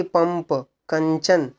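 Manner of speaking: पंप, कंचन with a hummed m and n; nasal buzz. Shown as a demonstration. Teacher inviting students to try, पंप, कंचन buzzing in the nose. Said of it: "नाक से भनभनाहट आएगी".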